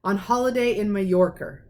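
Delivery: aunt snapping at her husband; snapped. Acted. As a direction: bite the words off, impatient. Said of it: "snapped Aunt Petunia".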